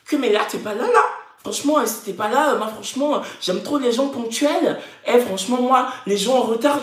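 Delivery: lightly mocked whitewashed French accent. Imitating a reality star chiding her assistant, mild whitewashed French accent. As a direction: put on a mildly affected white French accent. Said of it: "elle ouatise comme ça".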